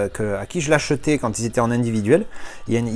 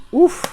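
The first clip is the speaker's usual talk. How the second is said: impressed whoop; 7 dB louder than usual. Real, not acted. Awed reaction to the item.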